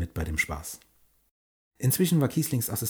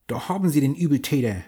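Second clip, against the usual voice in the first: proud pirate call; 5 semitones higher, 5 dB louder than usual. Acted. Pirates present the culprit.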